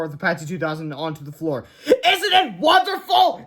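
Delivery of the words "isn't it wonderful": very high, slow, loud gushing; exclaiming in delight. A narrator's reading. Melvin showing the boys his living mouse, gushing with delight. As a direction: marvel at it like a proud inventor. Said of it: "exclaimed Melvin".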